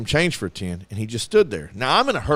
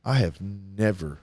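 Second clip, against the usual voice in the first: laughing disbelief; 7 semitones lower, 6 dB quieter than usual. Retold or imitated. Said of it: "she goes".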